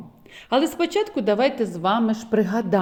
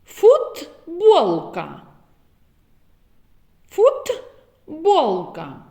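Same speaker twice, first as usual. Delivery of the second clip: Фламінго stretched very slowly, Ф held; very slow word; 4 semitones higher, much slower than usual. Shown as a demonstration. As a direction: drag out Фламінго for listening. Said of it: "зловити звук Ф в словах". (дуже повільно Фламінго)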